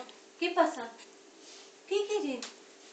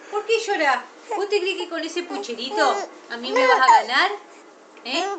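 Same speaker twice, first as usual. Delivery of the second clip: playful teasing; 7 dB louder than usual. Real, not acted. Mother teasing crying baby.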